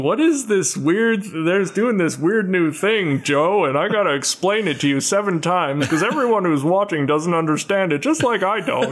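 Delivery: announcer voice. Retold or imitated. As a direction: imitate an old-school TV commentator. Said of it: "That's your announcer voice".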